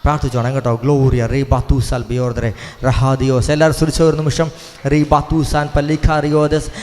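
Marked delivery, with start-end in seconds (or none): 0.8-3.5 slow, forceful burst of tongues; praying in tongues. Real, not acted. 4.9-6.7 slow, forceful burst of tongues; praying in tongues. Real, not acted.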